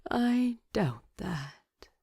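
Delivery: slow, sleep-slurred words; a touch of sleepy slurring. Acted. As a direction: drag it out as sleep takes over. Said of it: "his voice already slurred with sleep".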